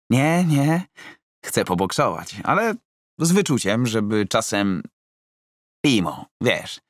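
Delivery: a timid client bargaining for a gentle spar; Roman, insistent. Acted. Roman asking his coach to go easy, high and fussy.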